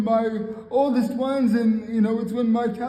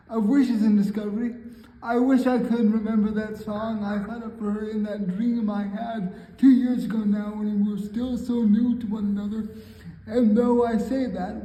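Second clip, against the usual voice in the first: measured spoken poetry reading; poem recitation. Acted. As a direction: recite it line by line, pausing between phrases.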